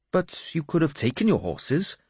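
high-pitched objecting voice; puzzled priest. Acted. Priest objects to his lord about horses, puzzled. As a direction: press the point in a high voice.

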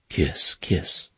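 breathy unvoiced kiss; soft whispered kiss. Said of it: "her sweet voice".

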